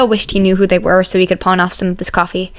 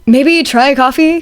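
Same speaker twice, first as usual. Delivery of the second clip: gentle suggestion; 5 semitones higher, 3 dB louder, slower than usual. Acted. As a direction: try to smooth things over gently. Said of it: "offered gently".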